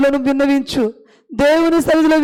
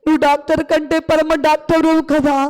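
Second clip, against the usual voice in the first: fervent prayer. Acted. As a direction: pour out the need before God. Long prayer voiced for childless mother. (వేడుకునే ప్రార్థన స్వరం)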